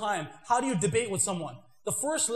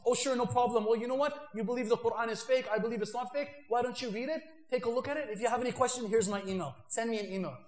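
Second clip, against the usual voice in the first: friendly brush-off; 3 dB quieter than usual. Shown as a demonstration. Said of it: "how to pass them off".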